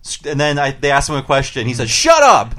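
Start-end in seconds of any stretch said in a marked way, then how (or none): 1.9-2.6 sudden high, loud shouted "Shut up"; Homer yelling. Retold or imitated. Imitating Homer on the phone with NASA, yelling. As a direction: cut them off with a full yell. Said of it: "with him yelling".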